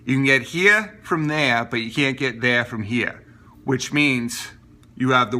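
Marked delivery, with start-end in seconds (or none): 0.1-3.3 put-on Maine local's drawn wordplay accent. Mainer teasing tourists who ask directions, Maine accent. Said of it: "someone's gonna say it if you ask directions".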